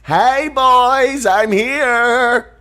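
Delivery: high, loud sing-song hello; sashay in with a high camp greeting; mock flamboyant greeting. Friend joking after man candy chant, high camp greeting.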